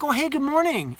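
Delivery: high, cheery good morning; brightly friendly hello; cheery greeting. Retold or imitated. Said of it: "super cheery".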